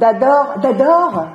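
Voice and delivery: «d'adore» with a D for the J; D instead of every consonant. Shown as a demonstration. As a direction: dire «d'adore» en remplaçant le J par un D. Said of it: "Avec un D". (dire «d'adore» avec un D)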